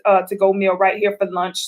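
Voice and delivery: a light, quick impression of the date; imitating the man. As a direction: play the surprised guy who just fed her. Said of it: "And he's like".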